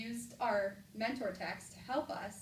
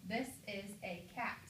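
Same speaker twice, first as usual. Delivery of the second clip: "This is a cat" in an even, normal tone; flat statement; 3 dB quieter than usual. Shown as a demonstration. Teacher repeats the sentence for the class, flat and normal. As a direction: say "This is a cat" evenly, as with a period. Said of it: "Or flat".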